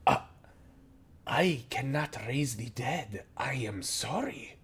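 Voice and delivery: startled, dropping to a whisper; taken aback. Acted. Goblin oracle stunned by a request for the fruit of life, whispered apology. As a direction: caught off guard, breathe the refusal. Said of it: "absolutely taken the fuck aback".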